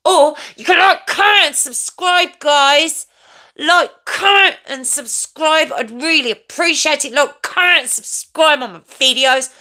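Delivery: high, loud, punchy channel plug; jingle-style plug. Pretend. Streamer urging viewers to like and subscribe, high jingle-style plug. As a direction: pitch it up and stretch out "subscribe".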